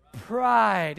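congregation shouting pride; loud unison call. Real, not acted. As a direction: call the word out together. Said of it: "can you say it with me".

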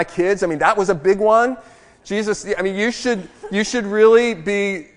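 protest, half-laughing, that you deserve better; complaining to God. Retold or imitated. Pastor mocking his own complaints to God: indignant whine. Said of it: "I'll say to God".

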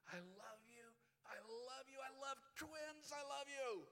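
from high and tender up to a loud, ringing call; building joyful cry. Acted. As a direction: let it swell each time.

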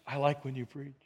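quiet, hushed voice of God; soft retold whisper. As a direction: gently murmur it like a secret. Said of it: "I heard the whisper".

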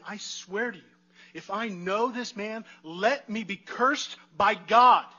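slow oath building to a loud cry; Peter's desperate oath. Retold or imitated. Peter swearing to the bystanders he doesn't know Jesus, slow rising loud oath. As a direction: swear it, rising until the last words ring out. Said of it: "He's saying".

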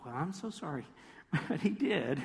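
sarcastic. Acted. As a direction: toss off an insincere apology. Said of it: "I know I'm being smarty and sarcastic".

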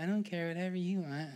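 spineless husband. Retold or imitated.

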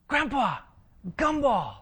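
put-on high, eager little girl voice; little girl begging. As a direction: beg like a small child for candy.

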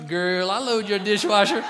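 playfully over-the-top seduction; suggestive innuendo. Acted. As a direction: turn a chore into a mock come-on. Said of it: "Guys can make anything sexual".

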